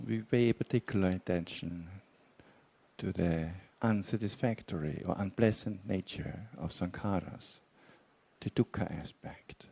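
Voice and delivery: measured meditation guidance with long pauses; guided meditation. Real, not acted. Teacher guiding meditators to relax and explore intentions, guided meditation. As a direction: guide them unhurriedly, leaving long silences between phrases.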